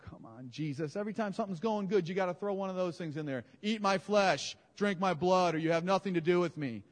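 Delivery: whiny grumbling disciples; mock disciples. Disciples griping at Jesus, a mock whine. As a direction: complain like put-out followers. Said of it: "They go".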